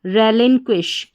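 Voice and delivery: "रेलिनक्विश" with क्यू यू as क्व, एस एच as श; pronunciation demo. Shown as a demonstration. Teacher showing learners how to read relinquish, pronunciation demo. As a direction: say "रेलिनक्विश" ending in a क्विश sound. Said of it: "पढ़ेंगे".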